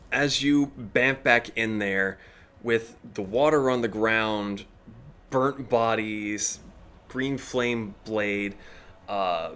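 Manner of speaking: slow, measured storyteller pace; dramatic scene narration. Acted. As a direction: set the scene slowly for the players. GM scene setting.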